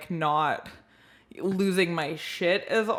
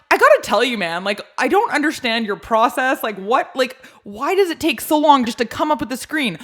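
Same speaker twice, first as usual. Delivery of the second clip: loud, exasperated rant at a support agent; screaming at him; 3 semitones higher, 4 dB louder than usual. Retold or imitated. Caller to phone agent, exasperated loud rant. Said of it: "screaming at this guy".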